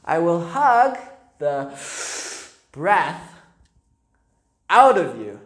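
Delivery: a big bear growling a slow threat; menacing bear. A narrator's reading. Bear threatening the boy Stephen, slow and menacing. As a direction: loom over the boy and threaten.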